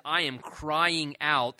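"crying" drawn out slowly and leaned on; desperate cry. Acted. Preacher quoting somebody crying out to God, mildly desperate. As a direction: stretch "crying out" into a slow, mild plea. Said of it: "implies a real sense of desperation".

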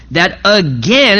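"again" said slowly with weight; stress on again. Real, not acted. Pastor stressing that David again refused revenge, slow and weighty. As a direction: lean hard on "again". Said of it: "I emphasize the word again".

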